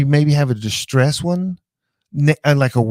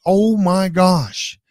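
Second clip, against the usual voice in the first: higher, slowed-down gasp of amazement; amazed; 6 semitones higher, much slower than usual. Retold or imitated. Recalling reading the AI's version, amazed. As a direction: stretch it out in wonder. Reacting to AI's redneck text.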